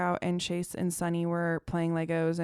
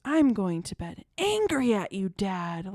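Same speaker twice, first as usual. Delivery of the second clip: retold angry declaration, stretched and pitched up; upset child; 3 dB louder, slower than usual. Daughter storming to bed angry at dad, imitated upset child. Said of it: "she was really upset".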